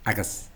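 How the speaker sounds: "Agus" with a flattened a as in cat; wrong vowel imitation. Shown as a demonstration. Teacher mimicking the error, cat-vowel "Agus". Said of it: "which should be agus".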